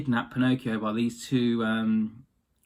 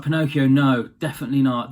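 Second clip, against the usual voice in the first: put-on raised, pleading no to a stubborn kid; louder, insistent warning from the cricket; urgent warning; 5 dB louder than usual. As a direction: call him back loudly, firmly. Cricket urgently warns Pinocchio.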